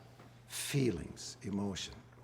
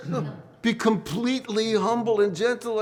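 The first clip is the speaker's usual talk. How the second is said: higher, firm divine reply, a touch stern; God says no, be completely humble, higher and firm; 7 semitones higher, 5 dB louder than usual. Retold or imitated. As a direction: answer like God, unbending. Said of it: "and he says".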